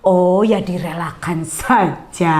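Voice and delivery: a slow, offhand voice copying a careless acquaintance; mock casual dismissal. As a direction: drag it out like someone who doesn't care. Acquaintance says let her go.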